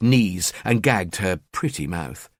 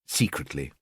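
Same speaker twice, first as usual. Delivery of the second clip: sinister aside; 8 semitones lower, 8 dB quieter than usual. A narrator's reading.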